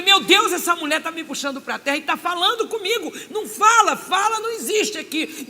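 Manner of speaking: high, loud furious pleading shout; angry outburst. Retold or imitated. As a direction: yell it in rising anger. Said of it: "começou a me dar uma raiva". (grito furioso, agudo e alto)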